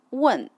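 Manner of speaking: 问 said wèn with a sharp falling tone; 问 in falling fourth tone; fourth tone demo. Shown as a demonstration. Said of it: "If I'm using the fourth tone".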